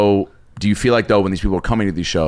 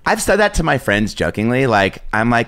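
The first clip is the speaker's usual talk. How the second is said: put-on girl voice. Shown as a demonstration. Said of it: "Every guy makes us sound like that".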